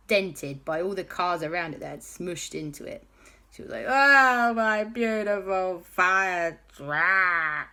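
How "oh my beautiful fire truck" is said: slow, mock mournful sigh; mild lament. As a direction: grieve over the dented truck. JB mourns dented truck.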